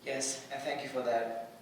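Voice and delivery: whisper-soft, steeling for the try; quiet resolve. Acted. Thanking a friend before a risky attempt, quiet resolve. Bracing for final desperate attempt.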